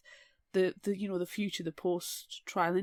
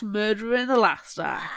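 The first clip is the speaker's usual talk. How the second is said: loud punchy mock announcement; mock dramatic shout; 6 dB louder than usual. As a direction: belt it like a show line. Parodying musical line.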